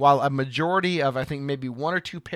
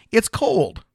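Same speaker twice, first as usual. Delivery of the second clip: emphatic exclaim; 8 semitones higher, 8 dB louder than usual. Real, not acted. Punchline exclaimed.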